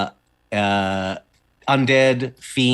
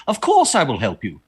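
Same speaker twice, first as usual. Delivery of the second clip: mildly raised, hearty promise; loud declaration; 4 dB louder than usual. Acted. Uriah agrees to help the kids, a mildly loud declaration. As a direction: declare it firmly, a touch louder. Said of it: "Uriah says very loudly".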